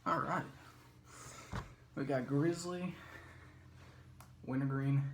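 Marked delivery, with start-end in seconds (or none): 1.9-5.0 slow. Shown as a demonstration. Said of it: "sounds pretty cool when I say it slow".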